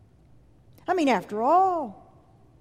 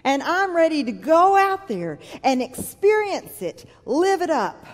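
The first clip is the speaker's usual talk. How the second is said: eager inner voice; 4 semitones higher, 4 dB louder than usual. Retold or imitated. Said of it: "and we thought".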